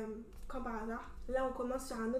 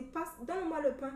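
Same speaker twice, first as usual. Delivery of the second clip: lightly put-on Cameroonian accent; 3 semitones higher than usual. Shown as a demonstration. Asking for the bread at a barbecue, light Cameroonian accent. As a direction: slip casually into a Cameroonian accent. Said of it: "je vais te le dire avec un accent".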